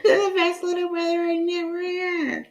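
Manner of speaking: high-pitched, squealing with laughter; high voice, giggling through the words. Real, not acted. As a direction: repeat it while cracking up. Repeats own line while cracking up.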